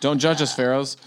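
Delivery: laughing plea to fans. Real, not acted. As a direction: giggle through the words.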